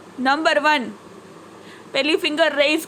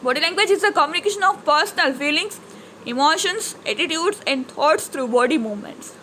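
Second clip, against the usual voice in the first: slow, measured textbook reading; reading aloud; much slower than usual. Acted. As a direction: read it out slowly for the class. Reads English definition aloud. (ધીમેથી પાઠ વાંચન)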